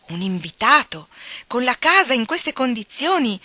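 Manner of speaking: loud, high, reproachful exclamation; indignant outburst. A narrator's reading. Meg rebukes her husband for inviting a guest, indignant. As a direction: throw the words at him in outrage. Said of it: "esclamando con un tono di indignazione".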